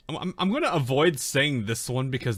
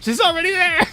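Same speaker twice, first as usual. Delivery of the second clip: excited shout; 11 dB louder than usual. Real, not acted. Sudden alarmed shout.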